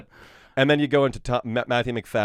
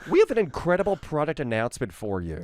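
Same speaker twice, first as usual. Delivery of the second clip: Tim Cook; 3 semitones higher than usual. Retold or imitated. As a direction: sell the product like a stage announcement. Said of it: "Tim, as in Tim Cook".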